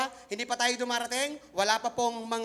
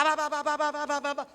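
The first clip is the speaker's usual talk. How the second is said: put-on baby babble; 3 semitones higher, faster than usual. Shown as a demonstration. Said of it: "nagkaroon ako ng baby talk".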